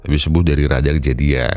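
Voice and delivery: slow, congested apology; stuffed-up cold voice. Real, not acted. Host apologising to viewers for his voice, congested. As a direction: talk through a blocked nose after flu. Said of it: "bindeng, sedang pilek".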